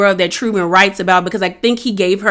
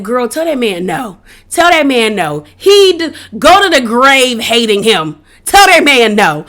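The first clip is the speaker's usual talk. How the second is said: mock screaming. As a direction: scold the iPad like you're hollering at it. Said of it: "I started screaming at my iPad".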